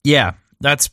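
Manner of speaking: talking through burning hot food; words around a scalding bite; mouth full of hot food. Real, not acted. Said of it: "my mouth is on fire".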